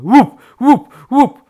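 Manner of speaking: high, loud, abrupt thumps; sharp, separate high knocks; loud pecking noise. A narrator's reading. Woodpecker hammers the tree, loud high bursts. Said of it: "plama zaczęła robić łup".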